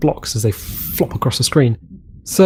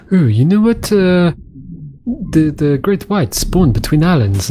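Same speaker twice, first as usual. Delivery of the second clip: quoted forum poster; 3 semitones higher than usual. Retold or imitated.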